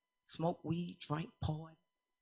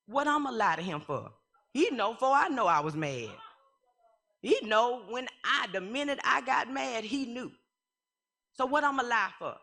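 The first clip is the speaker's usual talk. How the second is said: laughing insistence; 6 semitones higher than usual. Real, not acted. Laughing insistence about being mad.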